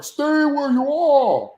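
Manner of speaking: loud, slow barked order; first order. Retold or imitated. Trooper ordering Tim Toole to freeze, first barked order. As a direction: bark it at him. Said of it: "Black Blue Trooper is like".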